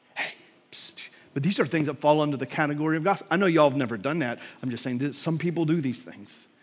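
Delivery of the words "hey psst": hushed, breathy whisper. Showing what gossip sounds like: whispering. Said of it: "It's like whispering to somebody".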